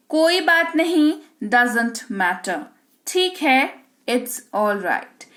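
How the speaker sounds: slow, measured language-teacher read-out; deliberate bilingual vocabulary drill; phrase drill read-out. Shown as a demonstration. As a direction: read each phrase out clearly for learners, pausing after it.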